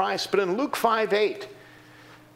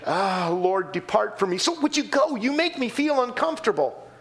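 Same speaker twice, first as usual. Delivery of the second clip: voiced sinner pleading; 2 semitones higher than usual. Peter voiced pushing Jesus away.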